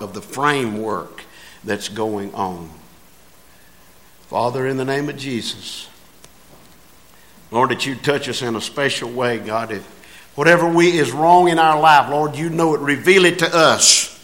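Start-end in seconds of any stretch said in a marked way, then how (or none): 4.3-14.1 closing prayer. Real, not acted.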